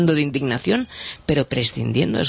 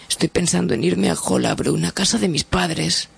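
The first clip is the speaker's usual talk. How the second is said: a lightly voiced, higher worried wife; 6 semitones higher than usual. Wife complaining to the doctor about husband, lightly higher voice.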